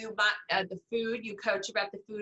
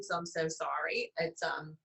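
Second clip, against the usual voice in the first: yawning; 5 semitones lower, 5 dB quieter, slower than usual. Real, not acted. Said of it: "I'm yawning right now".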